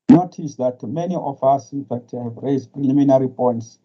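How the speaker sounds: muffled, like a bad call line. Real, not acted. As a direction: speak as if through a covered mouth. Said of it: "your line is very muffled".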